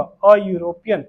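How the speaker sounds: अ यूरोपियन, slow, with a stretched अ; a not an. Shown as a demonstration. Teacher drilling the class on the article, slow and deliberate. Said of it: "एन यूरोपियन नहीं होगा".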